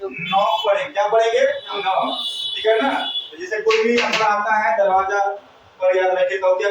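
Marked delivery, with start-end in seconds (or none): 0.0-0.6 नॉक starting straight on N; silent K in नॉक. Shown as a demonstration. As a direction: drop the opening K, begin नॉक on N. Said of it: "के को नहीं पढ़ेंगे". (नॉक में शुरू का के silent रखकर)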